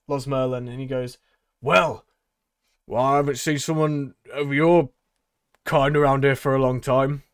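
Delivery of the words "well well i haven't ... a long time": louder, upbeat barker; showman voice. Acted. Tabaxi flattering the dwarf in a loud showman voice.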